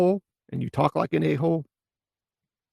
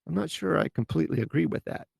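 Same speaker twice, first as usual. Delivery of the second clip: gentle disagreement; 3 semitones higher than usual. Shown as a demonstration. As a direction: ease into disagreeing kindly. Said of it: "That's a lot less harsh than".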